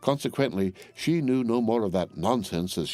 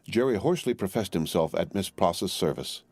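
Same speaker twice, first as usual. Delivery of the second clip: ordinary delivery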